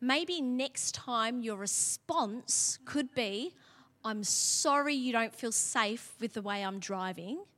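slow, soft and gentle suggestion; tender slow correction. Shown as a demonstration. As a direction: coach him kindly, slowly. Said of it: "I can say it like this".

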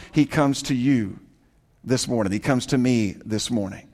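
low, soft, intimate preaching; hushed aside. Real, not acted. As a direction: drop right down to address the listeners personally. Intimate side note to the congregation.

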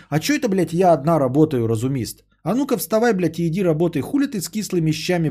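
high, shrill-voiced mock wife yelling; nagging wife rant. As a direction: rant at a sick husband as the wife. Voicing angry wife at sick husband.

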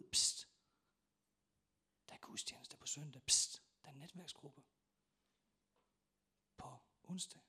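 hushed whisper passing on a rumour; psst, whisper it like a secret tip; secretive whisper. Acted.

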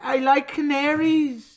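high, slow mock Welsh accent. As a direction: draw it out in a high Welsh lilt. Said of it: "One more, Welsh".

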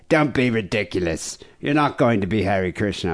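imitating a stern, dismissive father; mildly mock-stern parent; super serious dad. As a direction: lay down the law like Dad, understated. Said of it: "super serious".

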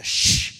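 sharp, forceful "shh"; loud shush. Acted. Crowd hushing the shouting beggar, loud shush. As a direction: shush someone hard. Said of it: "people told him to".

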